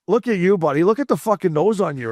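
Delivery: high-pitched retold trash talk; heckler comeback. Fan answering a bald spot heckler, mock indignant comeback.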